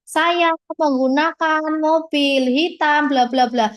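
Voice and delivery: "Saya menggunakan mobil hitam" drawn out slowly, left open with "bla bla bla"; no final intonation. Shown as a demonstration. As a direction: stretch "Saya menggunakan mobil hitam" as an unfinished example sentence. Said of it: "Nggak ada titiknya".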